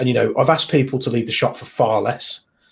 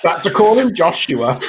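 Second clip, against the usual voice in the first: laughing while talking; 6 semitones higher, 5 dB louder than usual. Real, not acted. Laughing at the story.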